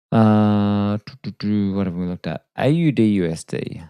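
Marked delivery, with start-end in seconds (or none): 1.0-1.7 idle doo-doo filler. Real, not acted. Idle humming while searching the screen.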